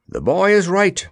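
high, emphatic declaration; declaring. A narrator's reading. Soldier backs up the messenger, declaring. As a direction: declare it with conviction. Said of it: "declared the soldier".

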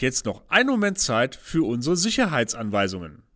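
formal captain's cabin announcement; pilot announcement. Acted. (Flugkapitän-Durchsage)

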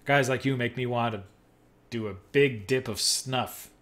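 loud, huffy yell at the cop. Acted. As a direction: let her blow up at the traffic cop. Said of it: "She yells".

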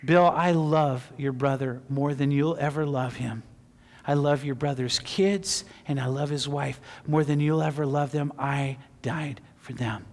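calm, tender retold answer; quiet inner voice. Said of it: "told me just in the quietness of my heart".

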